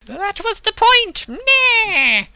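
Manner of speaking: very high, loud screeching jeer; slow, screeched heckle from a cultist; shouted retort. Acted. Game master as cultists answering back, shouted retort.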